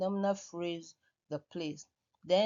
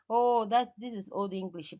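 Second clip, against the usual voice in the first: a loud, scoffing "oh, that" that quickly settles back; mock scoffing; 3 semitones higher, 5 dB louder than usual. Teacher mimics students dismissing emphatic do as old. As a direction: imitate a student brushing it off as old-fashioned. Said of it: "some of you say".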